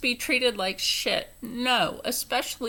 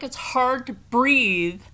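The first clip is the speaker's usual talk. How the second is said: angry retort. Retold or imitated. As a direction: lean hard into fucking mask. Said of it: "And I'm like".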